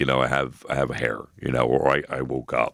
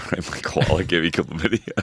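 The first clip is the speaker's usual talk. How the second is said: giggling as the slogan comes out; laughing through slogan. Real, not acted. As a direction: say it while cracking up. Laughing while repeating slogan.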